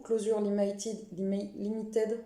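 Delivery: botched English-accent reading of the title; attempted English accent. Shown as a demonstration. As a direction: stumble through it in a would-be English accent. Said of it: "attention, accent de fou".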